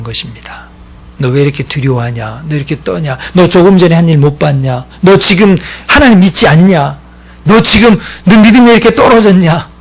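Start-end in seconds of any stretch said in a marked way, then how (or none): 1.2-9.7 scolding that builds from restrained to loud; mock scolding. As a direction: act out a telling-off, rising with each question. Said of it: "이렇게 혼내지 않으신다는 겁니다".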